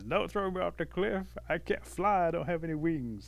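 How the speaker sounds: high-pitched mock pleading; scared turtle. Turtle begging wolves at the cliff, scared. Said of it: "turtle gets scared and says".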